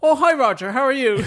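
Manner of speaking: high chirpy casual hello; cheery casual greeting. Retold or imitated. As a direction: sound breezy while hanging upside down. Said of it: "and goes".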